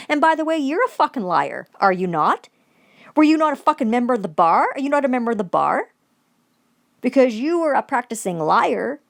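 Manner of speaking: angry. Acted. Ranting woman confronts the judge, angry accusing questions. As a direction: fire accusing questions at her.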